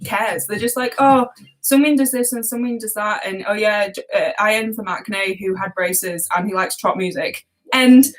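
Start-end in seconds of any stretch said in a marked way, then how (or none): 1.0-7.5 imitated indifference. Mocking guide makers rushing the last members, imitated indifference. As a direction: rattle it off as if you've stopped caring. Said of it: "they've run out of, of, like, cares".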